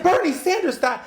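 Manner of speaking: high incredulous question; stunned on hearing the news; shocked disbelief. Retold or imitated. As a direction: replay the moment of shock, way up high. Own shocked reply retold.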